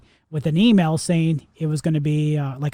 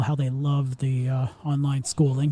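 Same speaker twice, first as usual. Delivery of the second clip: sarcastic; 3 semitones lower, 4 dB quieter than usual. Real, not acted. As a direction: say it like you mean the opposite. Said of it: "I'm being sar-, sarcastic".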